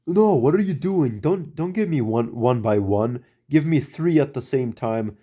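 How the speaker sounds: retold scolding pitched well up, mock exasperated; imitating an angry boss. Boss scolding the helper for handing logs one by one, mock angry. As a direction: play the boss snapping at a clumsy helper. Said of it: "And then he got mad".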